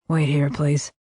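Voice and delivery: cool, superior shop clerk; haughty clerk. Acted. Haughty clerk dismisses her.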